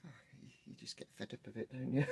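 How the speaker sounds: sore-throat rasp from a chest infection; croaky, wheezy sick voice; hoarse voice. Real, not acted. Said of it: "apologies for my voice at the moment".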